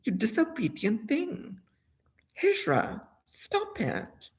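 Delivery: hushed, voiceless scolding; whispering back at the spirit, scolding it; whispered scolding. Retold or imitated. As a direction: hiss the rebuke under the breath. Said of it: "I said".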